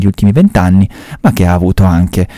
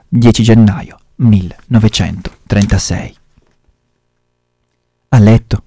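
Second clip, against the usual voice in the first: measured reading-aloud voice; story narration. A narrator's reading. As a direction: tell the story steadily, like a reader. Reads a Camilleri story aloud.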